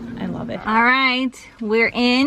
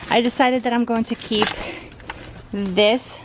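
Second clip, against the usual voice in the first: out of breath. Real, not acted. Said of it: "Sorry, I'm out of breath".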